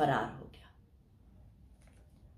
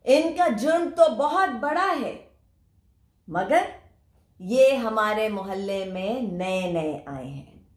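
queen bee announcing. Acted. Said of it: "अब रानी मक्खी ने ऐलान किया".

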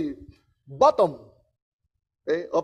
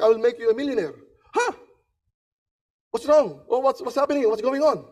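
excited salesman; 4 semitones higher than usual. Retold or imitated. Excited salesman reports success.

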